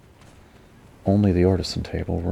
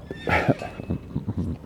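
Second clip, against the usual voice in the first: sudden choking cough on a breath; 3 dB quieter than usual. Real, not acted. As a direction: cough as if something went down wrong. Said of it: "I'm choking".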